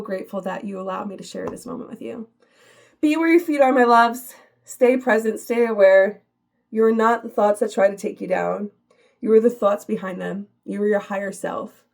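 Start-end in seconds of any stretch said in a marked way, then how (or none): 3.0-11.8 louder closing affirmation. Real, not acted. Closing uplifting message to viewers.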